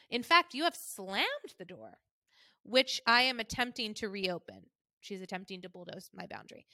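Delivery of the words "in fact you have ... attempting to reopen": mom's tone. Retold or imitated. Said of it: "this is how she talks".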